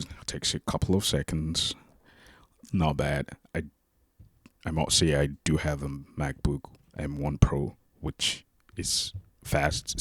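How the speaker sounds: drenched in room reverb. Real, not acted. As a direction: voice echoing like in a hall. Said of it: "sorry for the reverb".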